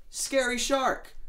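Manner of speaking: high, drawn-out spooky cry; scary shark cry. Acted. Young fish answering mom in a high, slow spooky cry. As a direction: stretch it out high like telling a scary tale.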